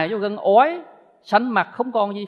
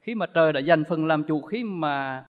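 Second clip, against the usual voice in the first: mournful poem recital; 2 semitones lower than usual. Retold or imitated. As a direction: recite it like a lament for mother. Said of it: "bắt đầu nói lỗi là".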